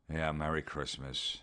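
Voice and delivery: low, soft and deflated; sulky holiday gloom; mopey sigh. Acted. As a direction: mumble it like Christmas is ruined. Mopey friend on warm Christmas.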